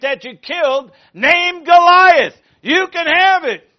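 Ahimelech voiced loud and high, offering; loud preaching voice as priest.

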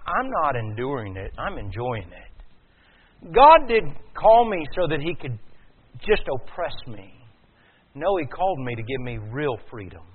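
usual speaking voice

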